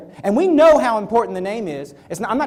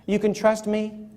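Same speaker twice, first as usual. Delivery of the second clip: mocking slick reassurance; 5 dB quieter, slower than usual. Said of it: "somebody said".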